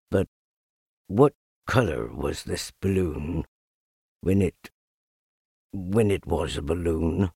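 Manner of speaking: hesitant, lightly voiced donkey; Eeyore, downcast. A narrator's reading. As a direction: ask haltingly, with pauses.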